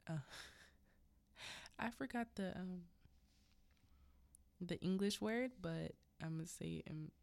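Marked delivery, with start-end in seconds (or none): 0.1-5.5 laughing. Real, not acted. Laughs at forgetting word.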